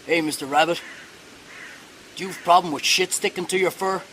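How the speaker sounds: understated bear reply in the teller's own register; lightly voiced bear. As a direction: answer as the unbothered joke bear, barely putting on a voice. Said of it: "He just turns around and he goes".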